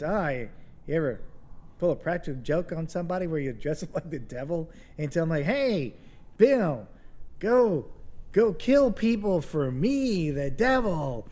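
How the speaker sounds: Norm Macdonald impression. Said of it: "that's really good Norm Macdonald impersonation".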